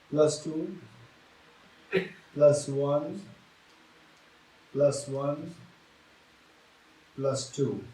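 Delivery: each number said slowly with long pauses; slow, careful counting; slow dictation. Shown as a demonstration. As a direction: read the sum out slowly, step by step. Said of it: "I will always say slowly".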